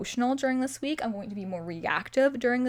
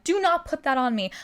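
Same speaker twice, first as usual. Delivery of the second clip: higher-pitched mock-indignant refusal; offended; 4 semitones higher, 4 dB louder than usual. Refusing to be called unlucky, offended. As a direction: push it back with affronted emphasis. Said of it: "I get so offended".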